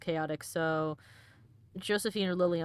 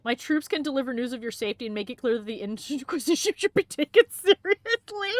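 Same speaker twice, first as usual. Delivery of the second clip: reading through giggles, ending high and loud; laughing read; 4 semitones higher, 6 dB louder than usual. Acted. Player reading an advisor's option while laughing. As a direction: crack up mid-line.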